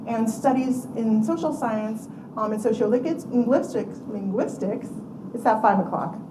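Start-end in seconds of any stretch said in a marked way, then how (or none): 2.6-4.9 tongue trips on "sociolinguistics", then retries "linguistics"; slurred stumble. Real, not acted. Lecturer tripping over a term late in the day, slurred stumble. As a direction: slur "sociolinguistics" slightly, then repeat "linguistics" to fix it. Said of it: "five o'clock slur that comes along".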